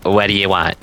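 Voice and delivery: imitated rude reply, understated; mildly curt put-on question. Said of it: "in a very rude voice".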